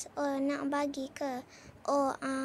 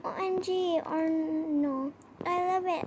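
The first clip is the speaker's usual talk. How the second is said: excited; 2 semitones higher than usual. Real, not acted. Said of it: "Excited, excited".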